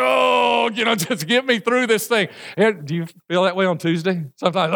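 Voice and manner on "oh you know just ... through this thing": groaning plea. Retold or imitated. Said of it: "It's like".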